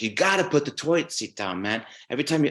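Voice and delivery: insistent mock-Scottish lecture; shitty Scottish accent. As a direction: do a rough, half-hearted Scottish accent. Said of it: "this is my shitty Scottish accent".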